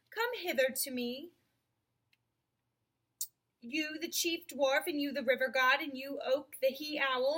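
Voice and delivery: grave, commanding lion king; lion's commanding voice. Acted. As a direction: address the council like a noble lion. Aslan addressing his council.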